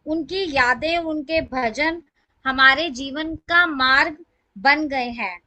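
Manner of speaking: measured reading with phrase-by-phrase pauses; formal tribute recital. Acted. Devotee reading her written lines to the satsang, formal recital.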